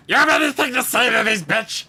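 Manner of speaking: quick, rough in-character demand; lightly voiced Maine, hurried challenge; in-character snarl at Skitry. Maine turning to Skitry for a verdict, rough in-character demand. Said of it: "Maine just turns to look at Skitry and says".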